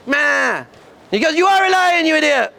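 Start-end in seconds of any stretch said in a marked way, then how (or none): 0.1-0.6 short put-on sheep bleat; lamb bleat. Cub fleeing the lion, lamb bleat. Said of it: "little lion, lamb, sheep cub". 1.3-2.5 higher, emphatic mock exasperation; exasperated. Lion King scolds his cub, exasperated.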